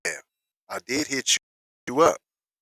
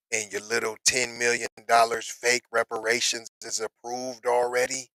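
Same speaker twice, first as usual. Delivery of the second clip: ordinary talk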